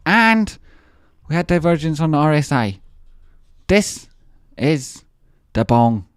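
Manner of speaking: hyped announcer build. Acted. Streamer hypes the chart setup to viewers, building to a loud shout. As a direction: announce it like a big trailer.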